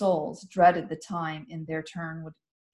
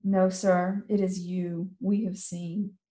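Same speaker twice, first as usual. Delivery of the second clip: put-on old woman sadly naming the traitor; low sad gentle; slower than usual. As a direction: say it gently, with regret. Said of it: "low and sad and gentle".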